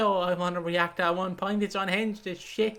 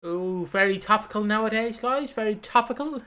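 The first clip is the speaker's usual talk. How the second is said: mock approval; 3 semitones higher than usual. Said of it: "And I went".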